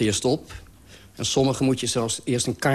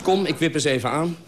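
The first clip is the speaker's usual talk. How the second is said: light and chuckling, pitched higher; breezy, laughing; 5 semitones higher than usual. Retold or imitated. Narrator's carefree drop-in plan, said laughing. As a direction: toss it off cheerfully with a laugh.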